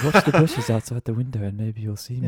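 hammed-up creepy stalker whisper-tone; creepy hammy voice. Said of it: "are you gonna be doing the creepy voice".

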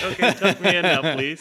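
put-on high, loud childish plea through laughter; mock little child. Rescued man asking the guide for bedtime, mock little child. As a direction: beg like a kid at bedtime, hammed up.

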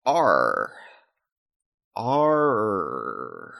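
drawn-out, low pirate "arr"; half-hearted pirate noise, trailing away; pirate growl. Pretend. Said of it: "I can make it right".

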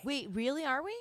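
whispered, surprised really. Real, not acted. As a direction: breathe it out in surprise.

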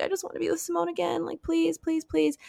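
high, light mock pleading; retold pleading. Woman begging to be with Simone again, retold pleading. Retold plea to see her son.

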